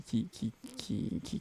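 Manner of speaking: slowed, warped tape-start voice; tape stop. Retold or imitated. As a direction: drag the words like a tape winding up. Imitates tape slowly getting up to speed.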